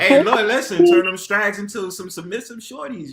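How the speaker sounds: laughing, high and loud mock prayer. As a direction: pray it while cracking up.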